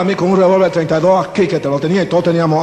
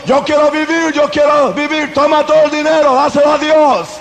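mock panicked pleading; 7 semitones higher than usual. Frightened churchgoers begging the gang, hammed-up panicked cries. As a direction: beg for your life, hammed up.

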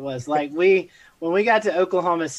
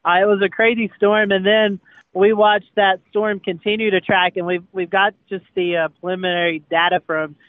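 shouting in the wind; 2 semitones higher, 7 dB louder than usual. Real, not acted. Storm clip narration over wind.

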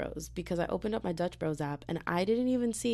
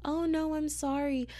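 polite rejection; 11 semitones higher, slower than usual. Retold or imitated. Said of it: "I'm like".

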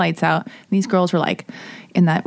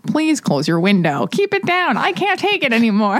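robotic voice; 3 semitones higher than usual. Retold or imitated. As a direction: play a robot through a bullhorn. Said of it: "a robotic voice being like".

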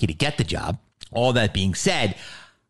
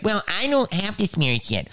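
mocking new-generation actor; 12 semitones higher than usual. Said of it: "they'd be like".

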